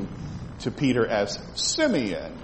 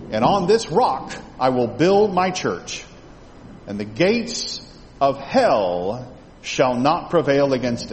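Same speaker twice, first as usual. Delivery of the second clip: measured, solemn Bible reading; scripture reading. Acted. Reading scripture aloud to class.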